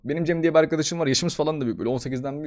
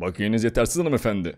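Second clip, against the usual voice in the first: card machine; 8 semitones lower than usual. Acted. Skit, bus card machine speaks.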